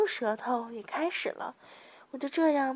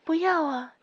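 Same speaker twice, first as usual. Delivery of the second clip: loud, higher pained cry; a loud, higher acted cry of pain; 4 semitones higher, 6 dB louder than usual. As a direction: cry out in protest, loudly. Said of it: "所以叫了出来".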